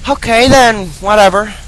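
put-on high, whiny fairy girl; fairy sidekick voice. Fairy girl pleads not to be left behind. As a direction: call after him in a high fairy voice. Voicing Tatl in dialogue.

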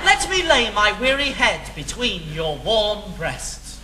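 low, hushed mock-seductive lover's voice; mock romantic lover. Teaching his friend what to say to Linda, mock seductive lover.

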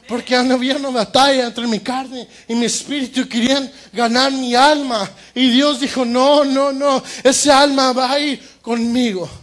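preaching. Acted. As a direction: drive the point home. Predica a toda voz. (predicación enérgica)

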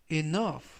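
"enough" with "ou" as an uh sound and "gh" as F; demonstrated pronunciation. Shown as a demonstration. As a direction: model "enough" as ee-NUHF, ending on F. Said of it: "라고 발음하시면 좋겠습니다".

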